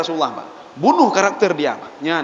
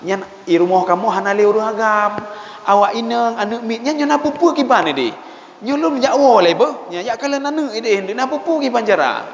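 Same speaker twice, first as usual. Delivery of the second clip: Abdullah bin Ubay; 3 semitones higher than usual. Acted. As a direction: make excuses in a raised pitch. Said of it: "Abdullah bin Ubay". (berdalih dengan nada agak tinggi)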